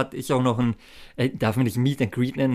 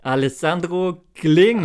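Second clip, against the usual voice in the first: hyped giveaway announcement; 4 semitones higher, 4 dB louder, slower than usual. Real, not acted. Main prize winner announced.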